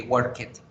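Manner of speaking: "work it" for worked, as two syllables "wor-ket"; beginner's mispronunciation. Retold or imitated. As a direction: imitate a beginner saying "work it" with a full -ed syllable. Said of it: "como pronunciamos al principio". ("work it" como principiante, en dos sílabas)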